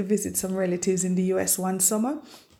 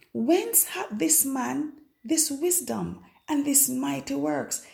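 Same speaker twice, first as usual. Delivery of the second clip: higher-pitched, incredulous reading; astonished question; 6 semitones higher, slower than usual. Retold or imitated. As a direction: read it as a baffled crowd would. Crowd's astonished question, read aloud.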